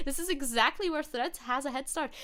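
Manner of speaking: put-on emphatic German-accented quote. Streamer reading what Müller says, German accent. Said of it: "in a German accent. Müller says".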